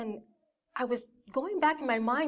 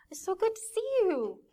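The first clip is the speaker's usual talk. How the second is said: mom's happy greeting; 10 semitones higher than usual. Retold or imitated. Mom welcomes her child home, overjoyed. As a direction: gush it high like a thrilled mother. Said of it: "They're so happy".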